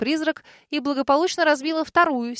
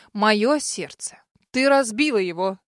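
outraged. Acted. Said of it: "Ещё больше возмутился Хемгред".

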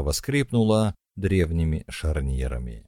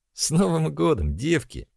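joyful shout; 11 semitones higher than usual. Acted. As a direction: call out the greeting happily. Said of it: "радостно выкрикнула Лика". (радостный выкрик)

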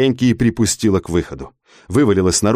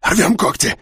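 rasped; 8 semitones higher than usual. Acted. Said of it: "прохрипел Юркан".

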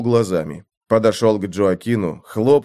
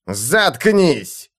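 крик; 3 semitones higher than usual. Acted. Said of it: "Мартин прервал его криком".

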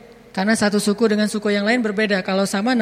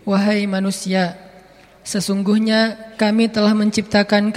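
measured, solemn reading of a translated verse; formal scripture reading; 4 semitones lower than usual. Acted. (bacaan terjemah ayat yang khidmat dan pelan)

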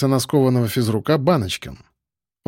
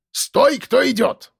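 put-on much higher, slow old sentry cry; old watchman's call; 11 semitones higher, slower than usual. A narrator's reading. Old school watchman challenging someone entering, high slow call. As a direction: call it out like an old guard at his post.

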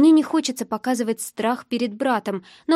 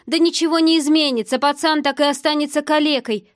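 raised, higher, cruel retort; heated retort; 4 semitones higher, 4 dB louder than usual. Acted. Drunk man dismissing her sick brother, heated. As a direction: throw it back at her heatedly.

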